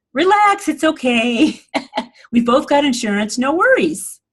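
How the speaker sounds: mock calming a stranger after a fender bender, no worries; reassuring loving driver. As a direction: soothe the other driver, breezy and kind. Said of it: "Someone who is loving would say".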